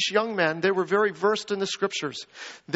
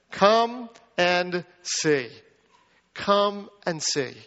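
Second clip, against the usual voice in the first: gentle invitation; much slower than usual. Acted. Philip's simple invitation.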